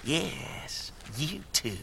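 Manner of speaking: whispering. Acted. Villain whispering an order.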